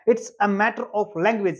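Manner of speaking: very slow, word by word; very slow model sentence. Shown as a demonstration. Teacher slowly repeating the sentence for students. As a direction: drag each word out for learners. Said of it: "क्या बोलेंगे?".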